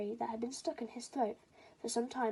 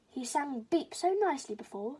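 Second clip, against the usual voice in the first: tired; 4 semitones higher, 3 dB louder than usual. Acted. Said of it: "said a tired crow".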